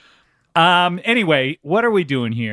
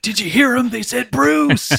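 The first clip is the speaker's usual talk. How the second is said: mock thrilled; 10 semitones higher than usual. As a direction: imitate an elated performer fooling himself. Acts out Bruce bragging backstage.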